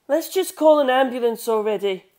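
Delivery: urgent plea. Acted. Frightened narrator urges help.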